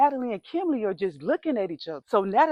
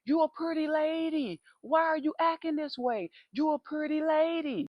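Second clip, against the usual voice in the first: lightly voiced creepy neighbor; 6 semitones higher, 3 dB quieter than usual.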